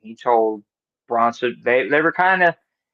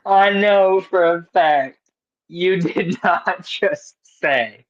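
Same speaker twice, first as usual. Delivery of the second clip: slow, higher-pitched incredulity; mock disbelief; 6 semitones higher, slower than usual. Chef calls out co-host over a remark, mock disbelief. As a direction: stretch the words out in playful outrage.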